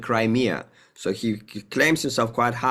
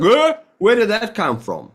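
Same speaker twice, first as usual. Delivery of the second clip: much higher, louder startled gasp of a question; mock surprise; 10 semitones higher, 5 dB louder than usual. People blindsided by the war, high startled voice. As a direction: sound caught completely off guard. Shit hits the fan, shock.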